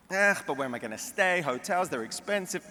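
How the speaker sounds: Jewish mother. Retold or imitated. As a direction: whine it like a reluctant Jewish mother. Mother voiced in a joke.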